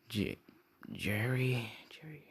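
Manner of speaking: soft unvoiced whisper of a name; breathy whispered muttering, thinking aloud; whispered to self. Real, not acted. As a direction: whisper it to yourself while trying to remember. Muttering while recalling a name.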